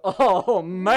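sway into it like she's about to fall over; dazed girl. Retold or imitated. Showing how the girl sounded, woozy dazed drawl. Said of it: "That's what she was like".

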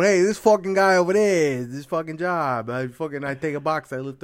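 high, loud griping coworker voice; mock fed-up worker. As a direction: ham up a worker sick of his job.

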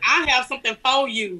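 FOR said as "fuh", with no R; Southern dropped R. Shown as a demonstration. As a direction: drop the R in FOR, laughing. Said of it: "Oh, I say".

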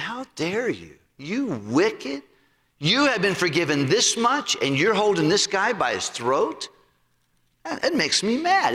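king rebuking the unforgiving servant, mildly angry; mad king. Retold or imitated. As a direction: scold the ungrateful servant. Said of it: "And it made the king mad".

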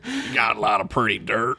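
a hint of Boston accent; mock Boston local. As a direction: put on a Boston twang.

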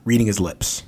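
steady storybook reading voice; story narration. A narrator's reading. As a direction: read it like a children's chapter book. Reads the book aloud.

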